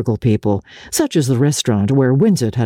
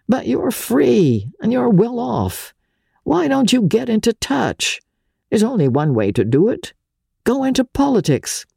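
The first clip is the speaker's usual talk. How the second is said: lightly voiced Winsett, higher and pressing; urging Winsett; 8 semitones higher than usual. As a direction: push him toward politics, pitched up. Winsett urges Archer, voiced higher.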